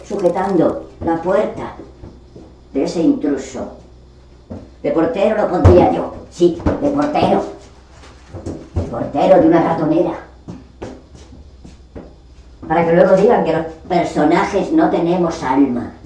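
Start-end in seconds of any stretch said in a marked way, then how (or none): none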